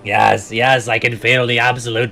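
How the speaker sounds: loud power-mad sorcerer; villain voice. Acted. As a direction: revel in ultimate power.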